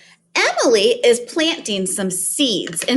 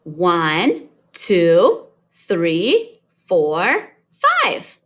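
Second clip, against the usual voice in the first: put-on kids show host; 5 semitones lower, much slower than usual. Shown as a demonstration. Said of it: "Let's count the corn".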